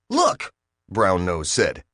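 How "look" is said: sudden high call; high alien voice. A narrator's reading. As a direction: point it out, pitched high. Brown Nose alerting the group.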